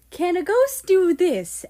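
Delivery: loud, high mock shout; retold shout. America retells the ghost's loud shout, high and loud. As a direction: yell it at the top of the lungs. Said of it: "you shouted".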